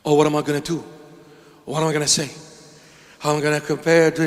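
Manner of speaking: mock worrying. Mocking anxious worrier's inner voice.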